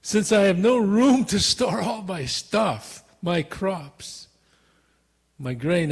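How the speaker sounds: hammed-up fret over no room; mild anxious rich farmer; rich man's fretting. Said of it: "he talked like that".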